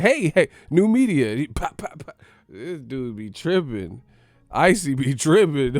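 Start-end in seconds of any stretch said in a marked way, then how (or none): 0.0-1.3 mock hype fan. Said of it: "they're like".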